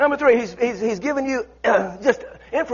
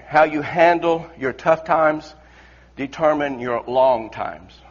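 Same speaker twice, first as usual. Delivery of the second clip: slow, weighted delivery; slow deliberate; 5 semitones lower, slower than usual. Real, not acted. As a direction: spell it out slowly. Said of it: "I wanted to say it in that phraseology".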